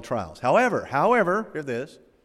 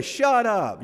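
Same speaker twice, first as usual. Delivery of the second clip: mock amazed shut up; 7 semitones higher than usual. Mock teen reacting to a shake.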